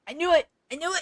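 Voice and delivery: loud, high triumphant cry; excited shout. Real, not acted. Flowers finally bloom.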